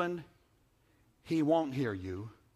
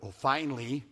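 sarcastic spouse. Retold or imitated. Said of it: "you punctuate with".

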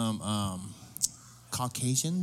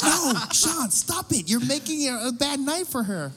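very high, laughing plea; laughing protest; 11 semitones higher, slower than usual. Retold or imitated. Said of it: "And I was like".

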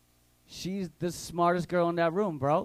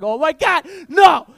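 1 panicked shout; 8 semitones higher, 14 dB louder than usual. Retold or imitated. Panicked scream in retold chase.

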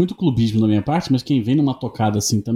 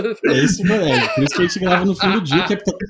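rindo; 3 semitones higher than usual. Real, not acted. Rindo enquanto fala.

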